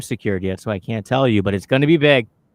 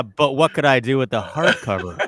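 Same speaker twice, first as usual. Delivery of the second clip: laughing mock question; 3 semitones higher, 3 dB louder than usual. Joking quote of the woman.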